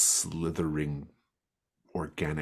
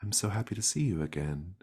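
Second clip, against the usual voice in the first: little voice; 4 semitones higher, faster than usual. Acted. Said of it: "you hear a little voice".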